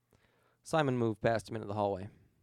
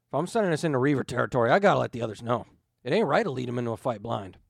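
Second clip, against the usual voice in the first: louder, fast, gruff insistence; firm objection; 7 dB louder, faster than usual. Acted. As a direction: stand your ground. Jayne objects firmly.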